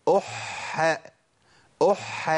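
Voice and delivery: "أح" held on the h, opening into a; teacher's drawn-out "أح"; doubled ha with fatha. Shown as a demonstration. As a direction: lean on the doubled h in "أح". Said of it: "الحالة الخامسة التشديد بالفتح".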